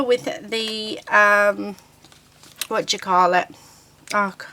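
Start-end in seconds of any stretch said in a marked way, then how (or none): none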